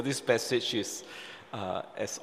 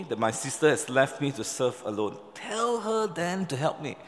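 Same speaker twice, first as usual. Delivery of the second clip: agitated complaint; 3 semitones higher than usual. Acted. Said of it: "she was raising her voice".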